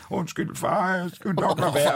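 lightly voiced apologetic little daughter; a hint of a small child saying sorry; meek child, imitated. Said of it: "Og Ellen er sådan lidt".

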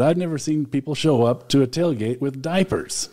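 light imitation of a southern drawl; a hint of southern drawl, lightly imitated. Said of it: "in his wonderful drawl".

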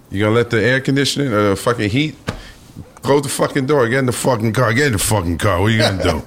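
impatient tough-guy command; gruff boss. Retold or imitated. Boss ordering the stranded boy into the car, gruff and impatient.

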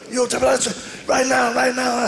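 high, slow taunting voice; hammed-up street fighter demanding it now; mock tough guy. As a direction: stretch out the dare.

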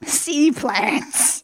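"Sea plants" lifted high and savoured; amused. Shown as a demonstration. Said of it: "that amuses me so much".

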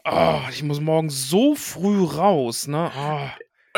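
slow, sighing excuses; tired evasive dad. Pretend. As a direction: drag it out like a weary father. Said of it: "ich bin ja jetzt quasi Daddy Morgoth".

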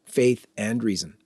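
measured, scripted event announcement; announcer reading a ticket plug; promo read. Acted. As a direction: read it like a polished radio ad. Reads a gala promo.

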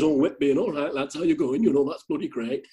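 lightly imitated Yorkshire lad; Yorkshire accent. Mimicking a sailor greeting the lads, in a Yorkshire accent. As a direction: put on a bit of broad Yorkshire. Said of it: "your Yorkshire accent".

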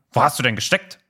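mildly imperious scolding question; retold telling-off, a touch haughty; bossy, disapproving. Someone greets late Harry, mildly bossy and disapproving. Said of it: "mit einer herrischen und missbilligenden".

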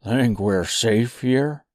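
slow, different character voice; a wary sidekick asking; Jack voice. Acted. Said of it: "asked Jack".

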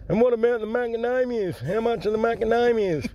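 high-pitched bloke with a cleft palate. Acted. Joke teller voicing the customer's greeting, cleft palate voice. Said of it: "This bloke got a cleft palate and a hair lip".

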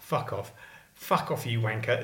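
parrot voice. Retold or imitated. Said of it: "says the parrot".

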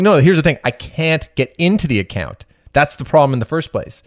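high, exasperated push-back. Retold or imitated. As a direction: lose patience with customer service. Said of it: "lose my cool".

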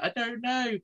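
high, soft giggling I don't know; laughing while answering. Retold or imitated. Woman in the toilet cubicle answering through laughter. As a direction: squeeze the words out through a giggle. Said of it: "she was like".

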